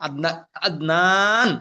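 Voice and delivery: slow, drawn demo of আদনান ending on a closed ন; name ending sounded with jazm. Shown as a demonstration. Teacher slowly shows the students how a name ends in jazm. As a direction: say আদনান slowly, final ন closed with no vowel after. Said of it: "এ কথা কিন্তু আমরা বলি না".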